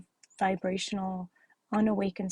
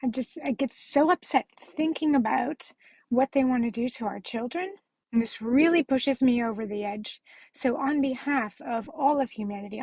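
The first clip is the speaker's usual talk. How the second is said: choked-up rising upset; 3 semitones higher than usual. Real, not acted. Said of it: "Sorry, I'm so emotional".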